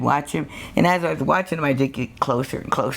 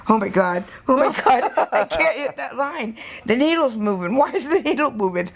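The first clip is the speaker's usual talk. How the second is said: higher, half-laughing mock panic; 9 semitones higher than usual. Novice botching a wife's tattoo, retold with laughing mock panic. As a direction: replay your own flustered panic, laughing at it.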